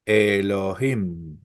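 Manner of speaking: Elohim slowly, syllable by syllable, stress on the final "him"; accent on the last syllable. Shown as a demonstration. Teacher modelling Hebrew word for students, final-stressed Elohim. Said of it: "ahí está el acento".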